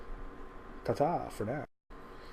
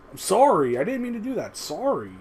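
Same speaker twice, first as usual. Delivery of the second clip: put-on over-apologetic Canadian accent, pitched higher; Canadian sorry; 5 semitones higher than usual. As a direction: imitate a sheepish Canadian saying sorry. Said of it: "most Canadian accented sorry".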